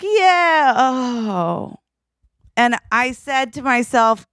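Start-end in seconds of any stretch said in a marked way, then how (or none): 0.0-1.8 high cheer sinking into dismay; imitated crowd, enthusiasm deflating; mimicked audience reaction. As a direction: cheer for her, then let it drop. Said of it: "And everyone's like".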